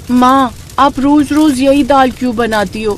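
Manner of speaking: put-on high-pitched child complaining to her mother; fed-up little daughter. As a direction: whine it as a daughter tired of the same dish. Bored daughter complains to mother in story. (ऊबी हुई बेटी की शिकायत)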